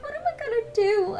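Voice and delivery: very high sweet panicky voice; bubbly cashier in fake distress; cute customer service voice. Shown as a demonstration. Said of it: "all cute".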